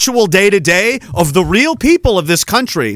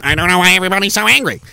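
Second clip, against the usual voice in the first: mocking rich guy; much faster than usual. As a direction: rattle it off like an oblivious millionaire. Mocking the millionaire.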